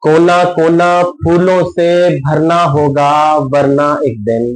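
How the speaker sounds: measured mushaira-style verse reading; ghazal recitation. Acted. Poet presents a ghazal to a listening audience, measured recitation. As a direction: recite each line in rhythmic, sustained phrases.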